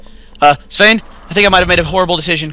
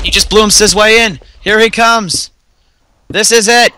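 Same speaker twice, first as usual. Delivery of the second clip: raging gamer; 6 semitones higher, 4 dB louder, slower than usual. Real, not acted. Enemy breaks in, panic.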